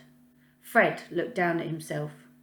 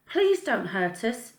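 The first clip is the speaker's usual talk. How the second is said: put-on soft pleading child; 4 semitones higher than usual. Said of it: "It was something softer".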